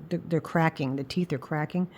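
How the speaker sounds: ordinary delivery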